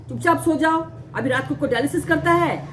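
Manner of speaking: retold brusque dismissal; rude. Night staff refusing a patient dialysis, mildly rude. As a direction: lightly imitate staff shutting a patient up. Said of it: "rudely बोलते थे".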